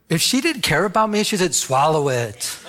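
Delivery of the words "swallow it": slow, drawn-out mock urging; mock uncaring. Imagined uncaring wife urging husband to drink, mock coaxing. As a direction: stretch each word in pretend encouragement.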